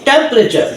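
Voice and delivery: "টেম্পারেচার" said whole in one go; একবারে উচ্চারণ. Shown as a demonstration. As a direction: run "টেম্পারেচার" together as one word. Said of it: "একবারে আমরা বলবো". ("টেম্পারেচার" একবারে টানা উচ্চারণ)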